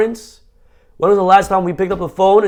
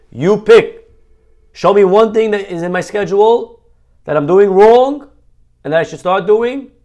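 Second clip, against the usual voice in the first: louder, higher eager request; eager plea; 3 semitones higher, 4 dB louder than usual. Pretend. Congregant calling the rabbi, eager and louder. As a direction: plead to be told what to change. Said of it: "call me up right now and say".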